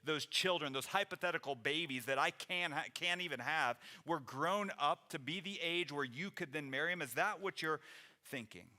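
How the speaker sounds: incredulous rhetorical questions; sarcastic. Acted. Naomi mocking the idea of waiting for babies, sarcastic. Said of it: "gets a little bit snarky, a little sarcastic".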